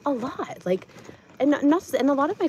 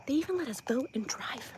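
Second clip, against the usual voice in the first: sarcastic whisper; 3 semitones higher, 6 dB quieter than usual. Real, not acted. Sarcastic aside.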